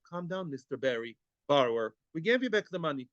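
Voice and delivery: calm him down like nothing happened; cool and calm. Retold or imitated. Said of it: "Cool as cucumber".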